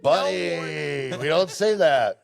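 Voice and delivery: high, slow embarrassed hush; mock-mortified parent; high flustered parent. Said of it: "you're just like".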